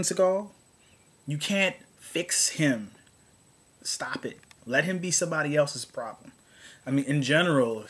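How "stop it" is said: softer, breathy aside; hushed scolding to the studio; whispered stop it. Real, not acted. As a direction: hiss it under your breath. Pleading with studio.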